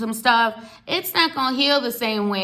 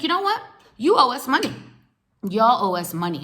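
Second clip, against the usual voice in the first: angry demand; 5 semitones higher than usual. Retold or imitated. Retelling angry demand for money.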